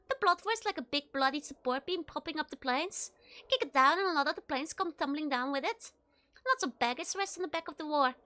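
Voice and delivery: a hint of Scottish lecturer; Scottish accent. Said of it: "like some Scottish person".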